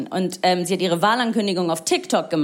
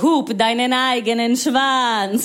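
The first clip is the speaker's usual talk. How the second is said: defiant slow retort; much slower than usual. Retold or imitated. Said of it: "ihr seid so".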